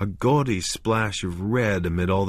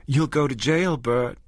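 solemn; 8 semitones higher than usual. A narrator's reading. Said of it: "she said solemnly".

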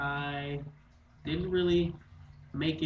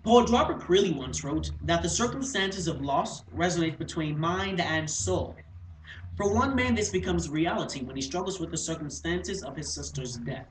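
formal, declaimed introduction; poised recital that settles down for the title; speech-contest introduction; 3 semitones higher, 5 dB louder than usual. Acted. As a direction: present the piece with measured poise.

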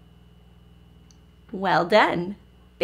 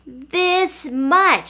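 higher, eager little hare; 4 semitones higher than usual. A narrator's reading. Little Nut Brown Hare to Big one, higher eager voice. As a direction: read it as a small hare proudly showing off. Small hare showing off his love.

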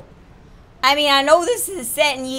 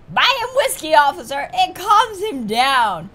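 put-on little girl voice; 4 semitones higher, slower than usual. Child hostage voiced by player.

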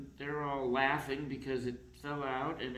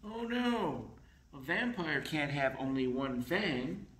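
dismayed oh no; 4 dB louder than usual. Acted. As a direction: gasp it out like a panicked little vampire. Dracula loses his fang.

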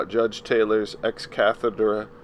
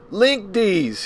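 much higher, louder yell of a name; 11 semitones higher, 4 dB louder than usual. Acted. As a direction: bark his name across the room. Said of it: "he yelled".

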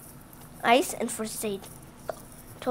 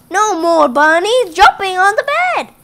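higher, louder stern doctor telling them off; doctor's loud scolding; 6 semitones higher, 9 dB louder than usual. Acted. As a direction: boom the doctor's order at the bunnies. Doctor scolds the jumping bunnies.

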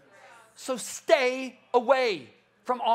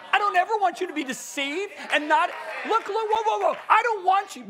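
passionate; 8 semitones higher than usual. Real, not acted. Preacher defending warnings as love, passionately. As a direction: plead with fire in the voice. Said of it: "You're pretty passionate right now".

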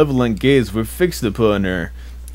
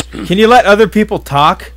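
annoyed scolding; 6 semitones higher, 8 dB louder than usual. Real, not acted. Scolding friend who keeps interrupting.

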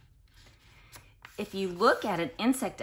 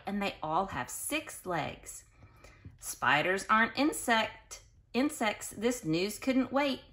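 put-on reading to children. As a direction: read it out to the class with bounce. Continues reading book to kids.

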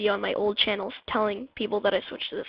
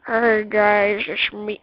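badly faked rough, vibratey throat voice; rough, worn-out voice; 6 dB louder, much slower than usual. Shown as a demonstration. Vlogger showing viewers their tired voice, rough and vibratey. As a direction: put on a rough, overused voice. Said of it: "Rough, like this".

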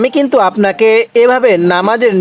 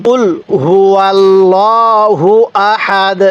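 word by word, drawn out; slow recitation; much slower than usual. Shown as a demonstration. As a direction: recite slowly for learners to repeat. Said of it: "আমার সাথে সাথে পড়ুন".

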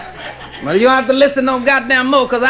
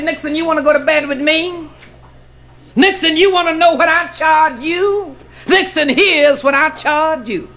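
slow taunting build to a high shout; building sass; 3 semitones higher, slower than usual. Acted. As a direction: lay out each condition slowly, then climb to a shouted punchline. Woman's slow building comeback to Nixon.

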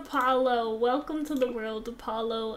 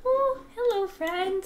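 high squealing hello; excited squeal; 8 semitones higher, 5 dB louder than usual. Real, not acted. Greeting a cute new dog, high excited squeal.

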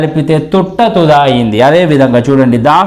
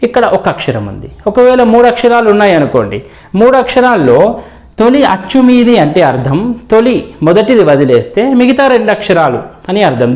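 ordinary talk

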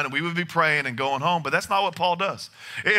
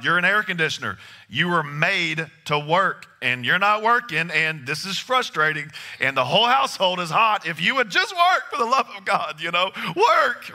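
mock frustration at air conditioner; 3 semitones higher than usual. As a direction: scold the broken AC, rising to a near shout. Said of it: "I was so frustrated".

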